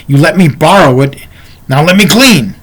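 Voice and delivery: firm retold pushback; retelling a firm comeback; assertive. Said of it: "expecting me to be assertive".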